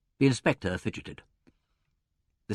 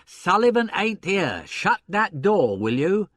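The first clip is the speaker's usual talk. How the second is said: loud, high, drawn-out bellow; irate order; 9 semitones higher, 6 dB louder, slower than usual. A narrator's reading. Gentleman to inspector in the doorway, irate. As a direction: send the intruder packing.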